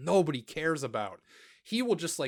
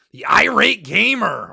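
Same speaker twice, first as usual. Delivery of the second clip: loud, higher mock-announcer call of the name; mock announcer shout; 4 semitones higher, 12 dB louder than usual. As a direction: boom the name out like a wrestling intro. Announcing next YouTuber, mock hype.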